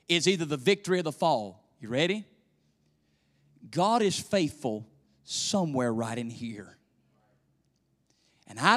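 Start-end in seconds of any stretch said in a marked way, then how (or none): none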